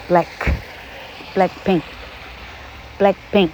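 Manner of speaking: each half of a band name said separately with voiceless final k; model pronunciation. Shown as a demonstration. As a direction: pronounce the band name slowly, no "kuh" after either k. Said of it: "你干脆Black pink". (乐队名慢速示范，k 不带元音)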